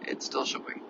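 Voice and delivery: heavily medicated and sick; drowsy, subdued sick voice; sedated. Real, not acted. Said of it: "I'm heavily medicated".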